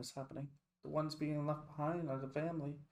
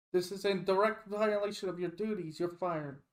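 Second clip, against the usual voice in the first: higher, louder angry scolding; fuming doctor; 4 semitones higher, 4 dB louder than usual. Acted. Fuming doctor fires Kime, loud and angry. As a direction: fire him on the spot, fuming. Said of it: "the fuming doctor".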